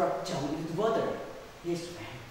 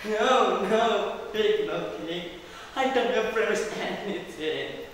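higher, raised princess voice; protesting denial; 3 semitones higher, 3 dB louder than usual. Acted. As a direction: deny it emphatically to the king. Princess denies it to the king.

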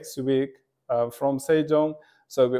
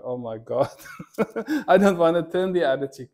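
laughing protest; 2 semitones higher, faster than usual. Retold or imitated.

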